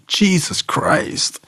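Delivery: slow whispered shock. Retold or imitated. Teachers reacting to his charge in a slow, shocked whisper. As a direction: breathe it out in disbelief. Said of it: "they'd be like".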